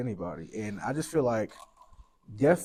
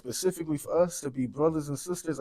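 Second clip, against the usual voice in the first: louder, higher, pleading rant; passionate rant; 4 semitones higher, 6 dB louder than usual. Real, not acted. Mourning friend rants to host about the community, louder and higher. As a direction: let the frustration pour out. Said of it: "and this is a little rant".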